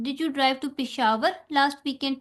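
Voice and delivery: last punched, sentence slow; stress on last. Shown as a demonstration. Teacher demonstrating emphatic stress on last, slowly. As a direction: hit last in last weekend. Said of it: "examples इसकी देखें".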